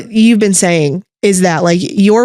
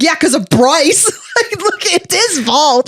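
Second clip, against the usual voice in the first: sheepish dad; 9 semitones higher than usual. Retold or imitated. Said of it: "He's like".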